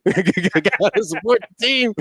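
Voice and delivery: high, slow, drawn-out mock cheer; hammed-up repeat of a fan's rallying cry; exaggerated fan cheer. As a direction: stretch the slogan out through laughter. Repeats quote higher, drawn out, laughing.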